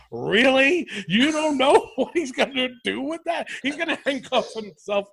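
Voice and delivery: a moderately put-on voice ridiculing a colleague; mocking co-commentator. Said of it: "he goes".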